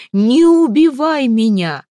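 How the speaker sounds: high, loud, slow plea; pleading cry. A narrator's reading. Mamalai begs the red-bearded leader not to kill him, loud. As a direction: beg the chieftain for mercy.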